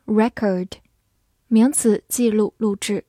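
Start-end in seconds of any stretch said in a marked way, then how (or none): 0.1-0.7 "record" as American noun, REK-erd; American pronunciation. Shown as a demonstration. Teacher gives learners the noun, American accent. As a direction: say "record" the American way, stress first, R sounded. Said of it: "美式发音record".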